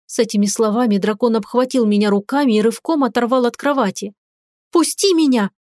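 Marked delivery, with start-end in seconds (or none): 4.7-5.5 crying out. A narrator's reading. Wife struggling in husband's grip, crying out. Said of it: "вскричала я".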